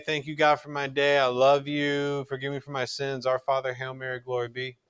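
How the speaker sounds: unhurried, sincere bedtime prayer; heartfelt prayer. Shown as a demonstration. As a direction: pray it gently, taking your time on I love you. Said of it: "That's vocal prayer".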